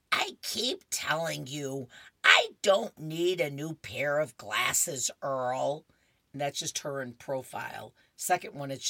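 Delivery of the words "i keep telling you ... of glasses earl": put-on slow, insistent old lady; insist, a bit louder; stubborn Opal. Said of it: "Opal says".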